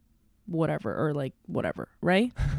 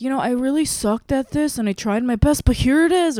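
imitating false modesty, pitched up; mock humblebrag; 5 semitones higher than usual. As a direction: play coy about your own success. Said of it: "they do this humble brag thing".

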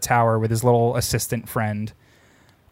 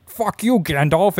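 mock Saruman curse; 6 semitones higher than usual. Voicing Saruman's angry curse.

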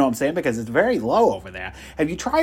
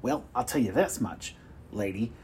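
puffed-up boasting at full volume; loud bragging; 3 semitones higher, 3 dB louder than usual. Acted. Salesman bragging loudly.

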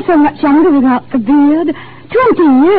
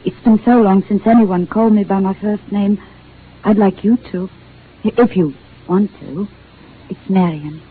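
shy; 4 semitones lower than usual. Acted. Shyly offers her first name.

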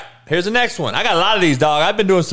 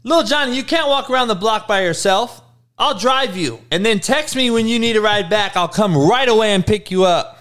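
higher-pitched fussing mother impression; overprotective mom; 4 semitones higher than usual. Mom offering little Johnny a ride, mock doting mother. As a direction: fuss over the child, pitched up. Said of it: "Little Johnny's mom".

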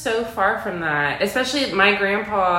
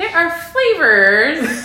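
laughing; 7 semitones higher, 7 dB louder, slower than usual. Retold or imitated. Laughing at young smokers.

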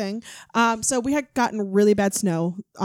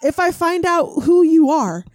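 slow, loud, threatening mom voice; stern threat; 6 semitones higher, 7 dB louder, slower than usual. Retold or imitated. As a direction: read it like an angry warning. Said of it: "my mom posted and said".

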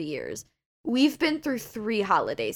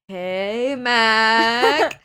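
a hint of a casual boss, louder on Mac; 2 semitones higher, 8 dB louder than usual. Retelling the call, lightly voicing her boss's loud greeting. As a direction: lightly voice the boss calling back. Imitating boss answering the phone.

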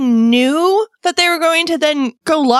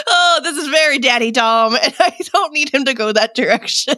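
laughing; 2 semitones lower than usual. Real, not acted. Laughing retold reaction.

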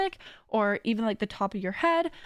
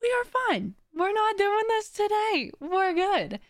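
much higher, sing-song reassurance; higher, chirpy reassurance to your own brain; reassuring self-talk; 10 semitones higher, slower than usual. Shown as a demonstration. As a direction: soothe yourself out of a spiral. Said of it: "just be like".

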